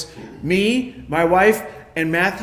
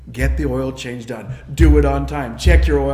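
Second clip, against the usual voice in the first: lower-pitched imitation of a nagging dad; dad's urging; 5 semitones lower, 4 dB louder than usual. Dad's urgings echo in son's mind, imitated insistent urging. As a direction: press each instruction home like an insistent father. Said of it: "is my dad's urgings".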